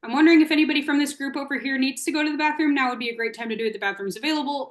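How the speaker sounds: gentle prompt phrased as wondering, not a command; casual wondering. Shown as a demonstration. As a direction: muse aloud to the group, indirectly. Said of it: "like a wondering or like a musing".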